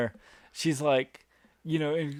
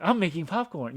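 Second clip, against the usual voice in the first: lightly imitated naive girl; a touch of innocent chirpiness; 3 semitones higher, 4 dB louder than usual. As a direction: act mildly oblivious. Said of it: "kind of naive".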